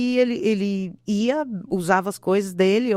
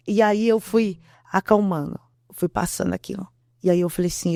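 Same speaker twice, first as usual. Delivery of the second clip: normal talking voice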